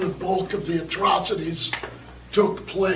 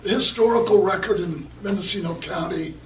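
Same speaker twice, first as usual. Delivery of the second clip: raspy, strained, worn-out voice; hoarse voice; 4 dB quieter than usual. Real, not acted. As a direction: speak through a hoarse throat. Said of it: "I know I sound like Donald Duck".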